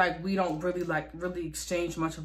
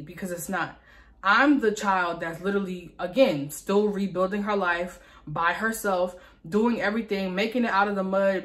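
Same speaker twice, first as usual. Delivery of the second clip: angry. Retold or imitated. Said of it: "that pissed me off".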